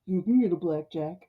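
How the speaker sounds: lightly put-on unruffled reply; deep-voiced conscience. Myron's conscience talks him up to face gangsters, lightly mocked deep voice. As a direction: coolly counter in a hint of a character voice. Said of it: "it's this deep, deep voice".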